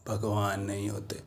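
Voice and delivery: very soft, low echo of a claim; hushed disbelief. Acted. Mahout echoes those who deny God, hushed and low. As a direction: drop it almost to nothing.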